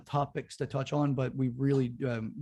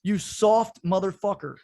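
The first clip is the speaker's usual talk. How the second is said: louder, slow, spat-out insults; angry insults; 5 semitones higher, 4 dB louder, slower than usual. Real, not acted. Podcast host insulting LeBron James, slow angry outburst. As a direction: hammer each insult slowly.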